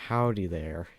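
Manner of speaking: a hint of a Southern US drawl on "Howdy"; casual southern "Howdy there", barely put on; light southern accent. Shown as a demonstration. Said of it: "I guess I could say stuff like".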